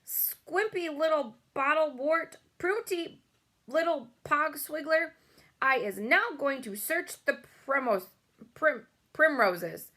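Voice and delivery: high, loud string of insults; furious tirade. A narrator's reading. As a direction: keep shouting the insults. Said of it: "he shouted".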